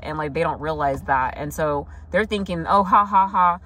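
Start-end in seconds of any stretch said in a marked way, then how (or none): 2.7-3.6 mock sneaky laugh. Mocking sneaky gloating person.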